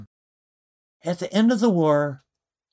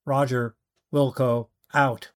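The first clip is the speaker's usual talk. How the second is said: flat, lower radio call; monotone radio voice; 4 semitones lower than usual. Acted. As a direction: recite it like a bored radio operator. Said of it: "talking in a microphone in the most monotone voice".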